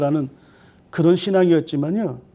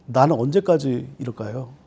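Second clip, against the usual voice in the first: sorrowful prayer. Retold or imitated. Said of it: "이런 기도를 드리는 거예요".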